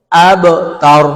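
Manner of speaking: আবতারু with the ব released clearly; আবতারু, the ব given its single sound; tajweed demo. Shown as a demonstration. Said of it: "ব, বায়ের একক ব".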